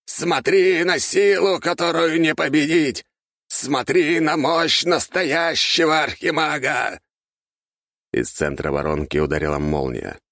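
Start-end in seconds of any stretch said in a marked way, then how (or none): 0.1-7.0 very high, slow, louder proclamation; frenzied boasting. Acted. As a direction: crow with manic pride. Archmage boasts while casting.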